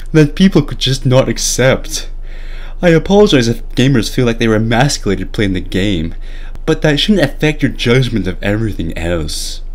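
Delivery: lightly voiced parody of Sakamoto; mock Sakamoto reading. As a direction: read it as a smug, clueless director. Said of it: "I'm going to read the entire article to you".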